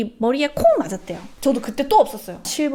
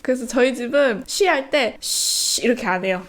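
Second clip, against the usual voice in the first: ordinary delivery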